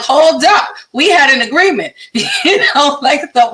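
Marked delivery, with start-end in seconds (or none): 0.0-1.9 high, fast mock protest with a laugh; indignant. Joking about her body breaking a deal, indignant. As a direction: push back like you've been betrayed, half laughing. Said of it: "And I'm like".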